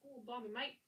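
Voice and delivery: hammed-up mock Australian accent; playful fake Aussie, lifting each "mate"; bad Australian accent. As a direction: tease in a badly faked Australian accent. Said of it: "do a really bad accent".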